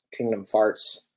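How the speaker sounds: "Kingdom Farts" said with an F, as a joke; "Kingdom Farts" with Farts in place of Hearts; joking mispronunciation. Shown as a demonstration. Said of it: "as I'll call it".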